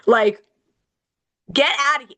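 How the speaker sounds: mock impatient customer, slow and drawn out; slow mock customer snapping at the kid. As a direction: play the fed-up driver in line. Teen voicing impatient drive-thru customers.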